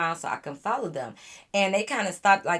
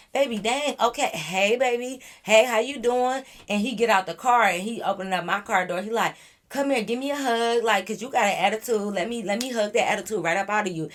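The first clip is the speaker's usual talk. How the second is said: higher, coaxing mock Freddie; imitating Freddie; 4 semitones higher, 3 dB louder than usual. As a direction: sweet-talk her out of the attitude. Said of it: "Freddie is like".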